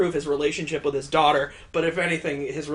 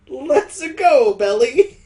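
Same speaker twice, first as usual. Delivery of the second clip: louder, higher rallying cry; excited cheer; 8 semitones higher, 9 dB louder, much slower than usual. Acted. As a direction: spur them on, loud and high. Riding cheer.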